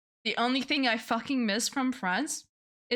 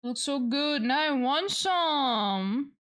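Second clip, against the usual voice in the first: craving; 5 semitones higher, slower than usual. Real, not acted. Craving food, pitch up.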